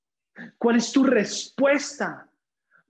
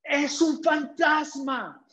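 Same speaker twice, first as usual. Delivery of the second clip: mock fearful cry; 7 semitones higher, much slower than usual. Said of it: "¿qué le gritan?".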